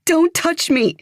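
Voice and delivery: high, loud furious cry; angry shout. A narrator's reading. Evie recoiling from Claire, high loud shout. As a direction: throw her off with your voice.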